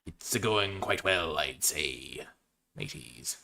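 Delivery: slow pirate drawl fading soft; a sly pirate aside to the mateys. Acted. Drafter telling mateys it goes well, soft pirate drawl. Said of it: "talk like a pirate this entire draft".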